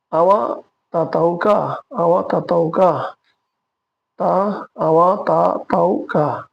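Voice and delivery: slow, careful Malay phrase for learners; slow Malay demo. Shown as a demonstration. Teacher modelling a Malay question slowly for learners. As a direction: lay out each syllable for students. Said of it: "সেটা বলতে মালয়তে বলবো".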